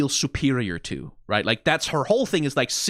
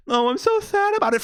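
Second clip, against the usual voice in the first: mock sadness; 3 dB louder than usual. Mocking the character's fake sorrow.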